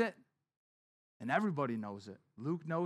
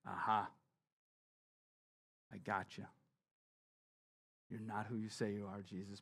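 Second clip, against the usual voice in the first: smug Pharisee; 7 semitones lower, 8 dB quieter than usual. Retold or imitated. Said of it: "the Pharisee's like".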